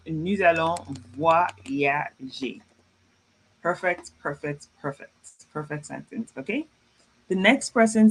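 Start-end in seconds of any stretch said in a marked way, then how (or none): 0.1-2.6 very slow, word by word; slow model reading. Shown as a demonstration. French teacher reads a student's sentence to class, slowly. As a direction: draw out "voyager" syllable by syllable.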